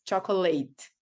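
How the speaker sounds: "chocolate" ending in "late"; mispronunciation retold. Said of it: "I did pronounce, like, all".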